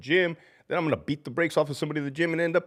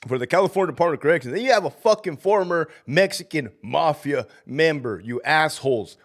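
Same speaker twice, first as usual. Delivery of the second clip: louder, higher, heated tirade at the commenters; worked-up rant; 4 semitones higher, 3 dB louder than usual. Real, not acted. Ranting at his online haters, heated and loud. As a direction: let the anger run away with you. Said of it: "now you got me started".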